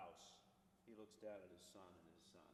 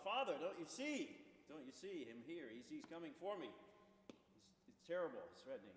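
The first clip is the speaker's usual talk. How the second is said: raised, higher and louder, panicked plea; a child calling out in fear, not full terror; frightened cry to father; 4 semitones higher, 4 dB louder than usual. Retold or imitated. Boy cries to his father about the Earl King, mock panicked. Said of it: "cries out again to the father".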